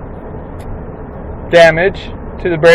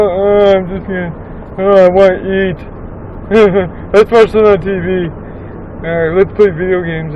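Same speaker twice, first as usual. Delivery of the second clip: stoner impression. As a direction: play a spaced-out stoner, half-hearted. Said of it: "That's my stoner impression".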